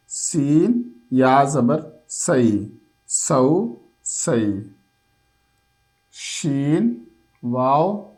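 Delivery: a patient teacher sounding out syllables; slow spelling drill. Shown as a demonstration. Teacher sounding out syllables for a child, slow spelling drill. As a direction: spell each letter out slowly and evenly, then blend.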